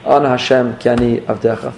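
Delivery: humble plea. Shown as a demonstration. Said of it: "put a little more emphasis on the Ana Hashem".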